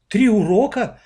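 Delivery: a high, shocked question; gasping surprise. A narrator's reading. The woman hears they missed three lessons, gasping. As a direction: gasp it out in disbelief. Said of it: "ахнула женщина".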